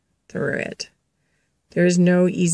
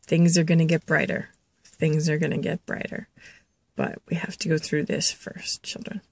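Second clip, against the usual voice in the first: soft reassurance; 5 dB quieter than usual. Retold or imitated. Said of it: "and he says".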